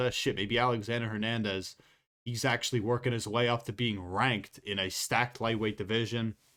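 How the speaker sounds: plain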